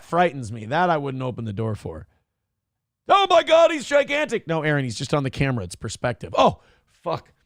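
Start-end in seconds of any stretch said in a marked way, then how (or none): 3.1-4.5 high, alarmed outburst; startled. Real, not acted. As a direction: gasp it out in real shock. Startled by huge figure on camera.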